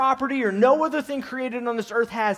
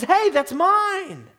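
God's gentle rebuke; 5 semitones higher than usual. Retold or imitated. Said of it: "he goes".

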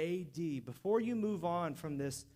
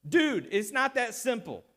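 casual dude voice; 6 dB louder than usual. Retold or imitated. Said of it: "translate this for you in common folk".

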